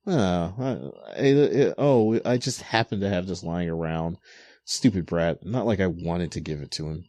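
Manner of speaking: mock tsundere excuse, starting flustered. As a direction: grumble a half-hearted denial of caring. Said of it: "Otose is acting all tsundere".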